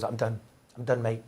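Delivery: lightly imitated Irish accent; weary Irishman quoted with a touch of brogue. Reporter retelling his friend's quitting, lightly put-on Irish accent. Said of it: "He's Irish. It's a good Irish accent".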